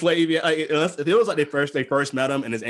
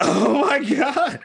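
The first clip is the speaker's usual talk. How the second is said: high, drawn-out cry through laughter; slow, high, helpless exclamation; laughing disbelief; 11 semitones higher, 4 dB louder, much slower than usual. Real, not acted. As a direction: wail it while cracking up. Cracking up at the quote.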